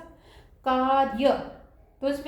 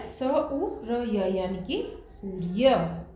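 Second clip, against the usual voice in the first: slow blending; 3 semitones lower, much slower than usual. Shown as a demonstration. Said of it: "slowly बोल के देखें".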